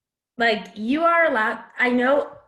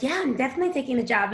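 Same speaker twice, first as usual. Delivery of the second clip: eager quick yes; 3 semitones higher, much faster than usual. Retold or imitated. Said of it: "you don't need to be like".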